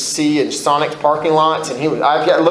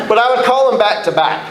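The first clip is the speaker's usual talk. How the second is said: words spilling out mid-laugh, pitched higher; laughing through words; 7 semitones higher, faster than usual. Real, not acted. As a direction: keep laughing as you say it. Laughing at own story.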